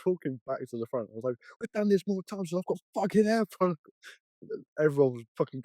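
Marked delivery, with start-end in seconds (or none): 1.6-3.9 retold cheeky quip.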